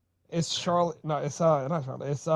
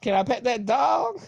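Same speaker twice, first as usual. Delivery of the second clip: imitating Lily as a kid; 6 semitones higher than usual. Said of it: "Lily as a kid".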